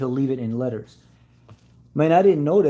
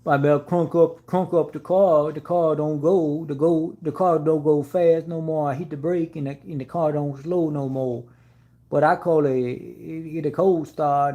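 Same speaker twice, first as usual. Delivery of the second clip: put-on lightly raised, slow-ish Southern good-ol'-boy voice; Bubba-like country drawl; 4 semitones higher than usual. Mocking the customer who blamed him, in a light country-boy voice. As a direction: mimic the clueless mechanic, a touch higher. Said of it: "that's exactly what it reminds me of, Bubba from Forrest Gump".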